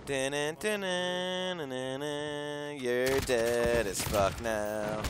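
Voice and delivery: very slow ominous taunt; slow menacing. Real, not acted. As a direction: drag it out ominously.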